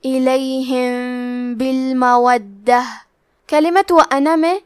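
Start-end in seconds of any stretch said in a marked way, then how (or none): 0.0-2.8 الیہم بالمودہ slowly, the meem hidden with a held ghunna before ب; ikhfa shafawi. Shown as a demonstration. Tajweed teacher demonstrating ikhfa shafawi, slow recitation. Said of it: "غنہ کے ساتھ ادا کریں گے".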